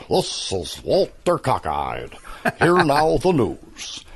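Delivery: a hint of a pompous anchorman; Walter Cockeyed newsman. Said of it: "as Walter Cockeyed".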